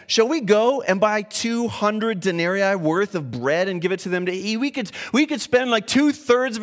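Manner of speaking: a hint of snark, slowed; snarky answer. Hungry disciples answering Jesus with light sarcasm. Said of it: "this is a snarky answer".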